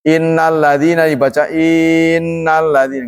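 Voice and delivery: "innalladzina" with the i stretched long; lengthened i, wrong. Shown as a demonstration. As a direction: draw out the first i. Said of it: "nggak boleh". ("innalladzina" I-nya dipanjangin)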